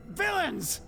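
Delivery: high frantic shriek. A narrator's reading. Killer breaks and shrieks at the police. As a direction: scream it at the officers. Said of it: "I shrieked".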